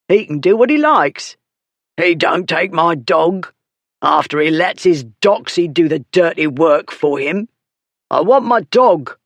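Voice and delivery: put-on a sulky drunk insisting; drunken rant. Dog beater ranting at the crowd, a rough drunk voice.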